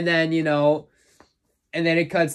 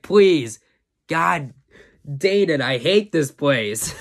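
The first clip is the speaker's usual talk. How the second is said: exasperated plea; slower than usual. Retold or imitated. Ray Arnold pleading with the locked computer, exasperated. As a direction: beg the computer, then give up in disgust.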